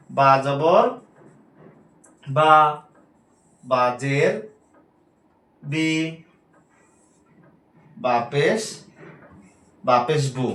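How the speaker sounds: "বা জবর বা, বা জের বি, বা পেশ বু" with each vowel short and quick; spelled-out recitation drill. Shown as a demonstration. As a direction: spell out each letter, then snap the short syllable. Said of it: "এই বুটাই হচ্ছে হরকতের উচ্চারণ". ("বা জবর বা, বা জের বি, বা পেশ বু" ধীরে বানান, ছোট উচ্চারণ)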